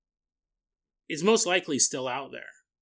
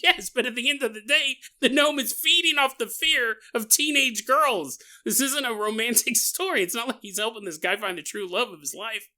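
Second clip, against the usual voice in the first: mock objection; 7 semitones higher than usual. Imagined listener objects to story.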